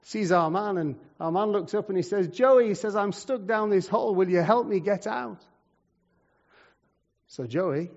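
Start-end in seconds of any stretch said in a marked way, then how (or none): 2.3-2.7 loud, high call up from below; calling out to a friend. Acted. Trapped man calls his friend. 3.0-5.5 higher-pitched acted plea; calling up for help. Trapped man calls up to friend.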